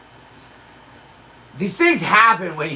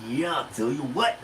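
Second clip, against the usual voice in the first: lightly voiced Macho Man impression, softer than usual; 3 semitones lower, 7 dB quieter than usual. Comic showing off impressions to the audience, Macho Man voice. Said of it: "Forrest Gump and, and Macho Man".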